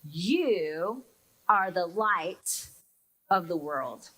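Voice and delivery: slow reverent reading of the verse; slow solemn reading. Shown as a demonstration. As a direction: read it slowly, letting each word land. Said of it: "Here are those first words".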